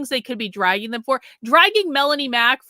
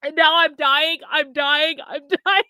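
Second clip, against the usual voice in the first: choking, laughing through it; coughing after a pill went down wrong; swallowed wrong way; 4 semitones higher, 3 dB louder than usual. Real, not acted. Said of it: "it totally went down the wrong way".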